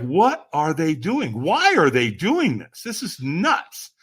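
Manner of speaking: slow, emphatic bewilderment; freaked-out disbelief. Acted. Brain freaking at the coal walkers, incredulous. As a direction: stretch each word in disbelief. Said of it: "my brain is freaking".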